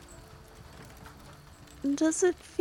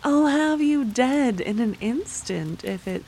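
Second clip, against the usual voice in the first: menacing threat. Acted. Threatens the noble, louder.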